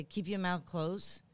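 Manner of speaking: slow, deliberate coaching; slow coaching tip. Shown as a demonstration. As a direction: spell out the trick slowly to young actors. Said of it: "all I say to them".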